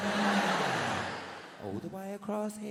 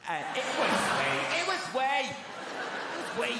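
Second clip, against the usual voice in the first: higher, louder laughing protest; laughing insistence; 7 semitones higher, 5 dB louder, slower than usual. Acted. Assuring the crowd it was wee, laughing and louder.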